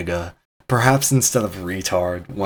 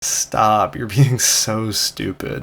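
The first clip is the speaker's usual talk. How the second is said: teasing tone; much slower than usual. Shown as a demonstration. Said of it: "the intonation of my speech influences".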